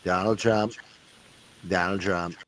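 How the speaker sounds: half-hearted low presidential imitation; Donald Trump. Host showing off his impression, half-hearted low voice. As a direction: keep it low and soft, a badly faked impression. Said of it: "This is my imitation of Donald Trump".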